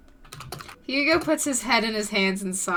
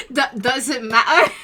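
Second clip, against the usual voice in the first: laughing through the line; 2 semitones higher, 5 dB louder than usual. Acted. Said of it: "I can't do an accent".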